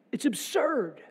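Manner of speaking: hushed, breathy aside; whisper. Real, not acted. Preacher to the congregation about the absurd question, whispered. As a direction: lean in and whisper it.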